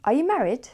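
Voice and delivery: "married" lifted high at the end; rising question tune. Shown as a demonstration. Teacher shows learners a yes-no question, rising on "married". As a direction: let the voice climb on "married". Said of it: "our voice goes up at the end".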